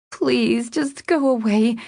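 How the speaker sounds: high, pleading female voice; begging. A narrator's reading. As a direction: beg to be left alone. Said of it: "she begged, her voice muffled".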